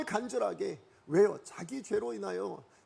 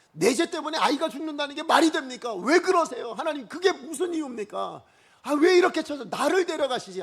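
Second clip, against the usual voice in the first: raised, louder indignant questioning; protesting to God; 5 semitones higher, 6 dB louder than usual. Pretend. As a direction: plead and argue with God. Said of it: "이러면서 따졌을 것 같아요". (하나님께 항의하듯 높아진 목소리)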